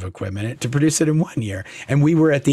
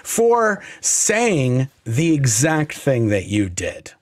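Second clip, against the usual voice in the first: higher-pitched retold outburst, half laughing; mock angry yell; 4 semitones higher than usual. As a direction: fire it back at him, worked up but playful. Retold angry yell while carried out.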